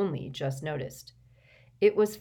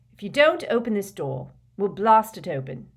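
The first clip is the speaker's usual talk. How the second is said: raised, determined warning; loud, higher-pitched ultimatum; loud threat; 4 semitones higher, 7 dB louder than usual. A narrator's reading. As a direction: threaten through a closed door. Harry threatens through the door.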